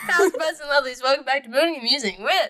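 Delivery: giggly podcast welcome; laughing through the intro. Real, not acted. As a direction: still laughing, high.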